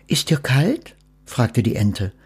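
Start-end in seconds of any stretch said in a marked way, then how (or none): 0.1-0.9 whispered question. Acted. Duck whispering to Death if he is cold. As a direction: breathe the question gently.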